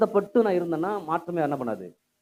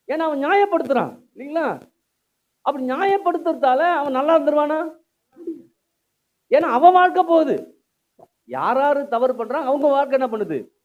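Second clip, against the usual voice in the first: higher, insistent sermon voice rising in volume; forceful preaching; 8 semitones higher, 5 dB louder than usual. Real, not acted. Preacher warning against justifying oneself, forceful. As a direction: challenge the congregation with raised voice.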